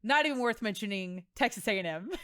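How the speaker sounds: mock disdain. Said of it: "Can you tell that we were rivals?".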